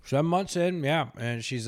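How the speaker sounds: talking through a mouthful of pretzels; words round a bite of snack; chewing while talking. Real, not acted. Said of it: "I'm eating peanut butter pretzels".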